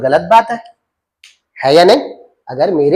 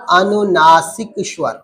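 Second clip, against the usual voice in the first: अनुनासिक स्वर drawn out slowly, syllable by syllable; slow for repeating; slower than usual. Shown as a demonstration. Teacher asking students to repeat after her, slow. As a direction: stretch अनुनासिक स्वर slowly so the class can echo it. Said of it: "मेरे साथ बोलते रहना".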